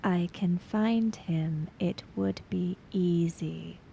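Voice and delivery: slow, soft, voiceless threat; menacing whisper. Acted. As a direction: whisper it like a promise of revenge. Chiaki repeats threat, whispered.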